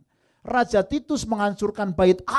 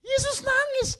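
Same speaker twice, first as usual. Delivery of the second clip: exclaimed. Acted. Preacher exclaims Jesus wept.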